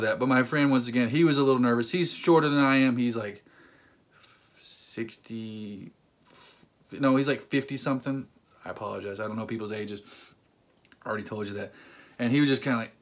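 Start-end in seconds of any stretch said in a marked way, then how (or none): 4.6-11.7 much softer, lower muttered apology; sheepish aside. Real, not acted. Correcting his friend's age, sheepish soft aside. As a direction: drop your voice in embarrassment. Embarrassed aside about ages.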